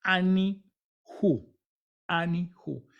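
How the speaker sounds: Ani-hu slowly split, "A-ni... hu"; Ani-hu pronunciation. Shown as a demonstration. Teacher showing "yo soy él" in Hebrew, Ani-hu slowly split. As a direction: leave a gap before the "hu" of Ani-hu. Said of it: "se diría".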